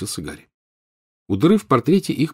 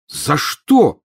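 mild roar; 7 semitones higher, 4 dB louder than usual. Acted. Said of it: "взревел Гарри".

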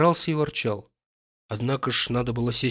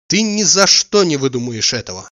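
louder, pleased with herself; proud; 4 semitones higher, 8 dB louder than usual. A narrator's reading. She boasts to Oblomov, proud of her ruse. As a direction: boast about her clever trick. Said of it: "прибавила она с гордостью".

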